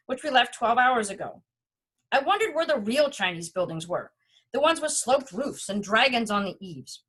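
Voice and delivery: reading a travel memoir aloud, evenly paced; story narration. A narrator's reading. Reading own Beijing travel story to an audience, story narration. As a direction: read it out like a personal essay.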